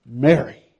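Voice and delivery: gentle. Acted. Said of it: "looks at her and says".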